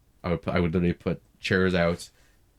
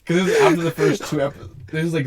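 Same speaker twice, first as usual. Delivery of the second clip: excited aside; 12 semitones higher, 8 dB louder than usual. Real, not acted. Excited aside mid-story.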